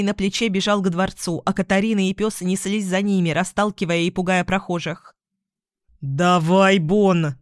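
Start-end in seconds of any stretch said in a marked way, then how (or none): 6.0-7.4 loud urging call; shout while running. Acted. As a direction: call out on the run. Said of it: "крикнул на ходу Виктор". (громкий крик на бегу)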